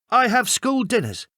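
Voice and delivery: put-on high, nervous little boy; a quick lie, kept small and high; child voice. A narrator's reading. Boy lies to the bully on the bus, high child voice.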